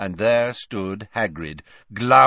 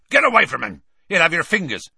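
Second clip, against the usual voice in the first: loud, raised-pitch warning yell; Hagrid's warning shout; 9 semitones higher, 6 dB louder, faster than usual. A narrator's reading. Hagrid warning visitors off the hippogriff, loud shout. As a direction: shout them away from danger. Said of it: "said a loud voice".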